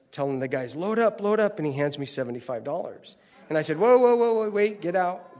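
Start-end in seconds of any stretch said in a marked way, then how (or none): 0.8-1.6 calling out. Retold or imitated. Interpreter calling out to crew. 3.8-5.4 urgent shout. Retold or imitated. Stopping the crew urgently.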